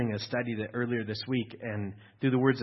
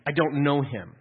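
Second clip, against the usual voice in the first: louder, firm declaration; emphatic quote; 3 semitones higher, 6 dB louder than usual. Shown as a demonstration. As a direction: say it like a vow. Voicing self-denial.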